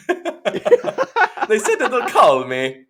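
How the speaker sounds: high, drawn-out wail through laughter; laughing mock wail. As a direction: stretch the letdown into a laughing whine. Replays dejected line, laughing.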